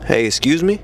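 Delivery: easy, suave attention-getter; nice smooth confident call; smooth and simple. Shown as a demonstration. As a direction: say it casually, in a relaxed natural pitch. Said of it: "A nice, simple, smooth, suavemente".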